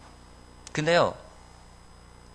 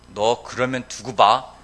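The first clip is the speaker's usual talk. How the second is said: mock threat; 3 semitones lower, 4 dB louder, much slower than usual. Angry parent threatening child.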